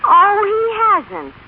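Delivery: slow, drawn-out sarcastic "Oh, he hasn't?"; sarcastic disbelief. Acted. Stella scoffing at the lawyer's claim, slow and sarcastic. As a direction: let the doubt drip, slowly.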